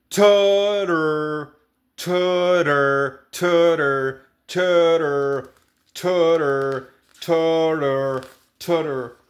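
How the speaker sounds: "tutor" with a ch-like first t and a flapped middle t; flapped T, ch start. Shown as a demonstration. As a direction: say "tutor" as chu-rer. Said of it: "como una R nuestra". ("tutor" con la T inicial como ch y la segunda como R)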